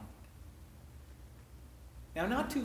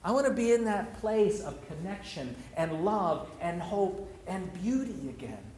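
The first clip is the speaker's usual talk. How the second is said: heartfelt prayer. Real, not acted. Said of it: "the prayer of my soul".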